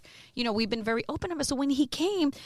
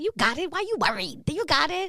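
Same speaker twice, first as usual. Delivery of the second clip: retold encouragement; 7 semitones higher than usual. Ebro voiced reassuring and urging her.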